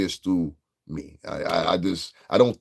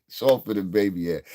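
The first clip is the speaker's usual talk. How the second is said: laughing repeat. Real, not acted.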